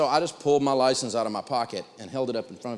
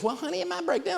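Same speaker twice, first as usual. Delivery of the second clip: high, soft imitation of the wife; wife's voice; 3 dB quieter than usual. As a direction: voice the wife, pitched way up and gentle. Wife voiced in retold story.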